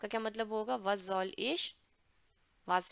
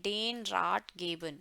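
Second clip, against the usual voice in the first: slow model phrase; 4 semitones lower, much slower than usual. Shown as a demonstration. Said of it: "वो कहते हैं".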